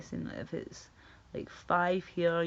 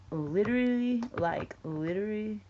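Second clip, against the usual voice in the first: put-on higher, louder girly "Literally"; mock valley girl; 4 semitones higher, 3 dB louder than usual. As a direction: ham up the gushing "Literally". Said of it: "why do lassies say that?".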